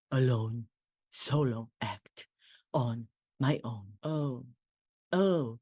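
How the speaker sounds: royal caller to Jimmy Fallon in a mock English accent. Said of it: "my reenactment of my conversation".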